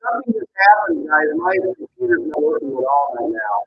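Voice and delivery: distorted muffled audio; garbled underwater line. Real, not acted. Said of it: "That's distorted a lot".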